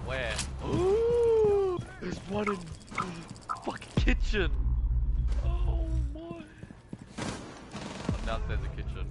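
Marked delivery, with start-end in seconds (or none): 0.7-6.2 high excited yell; yelling across the room. Real, not acted. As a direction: call it out loud and slow. Spotting an enemy in game.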